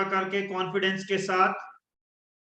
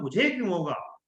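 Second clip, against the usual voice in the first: confident question. Shown as a demonstration. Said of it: "हाथ मेरा एकदम आगे बढ़ जाता है, टोन निकलती है".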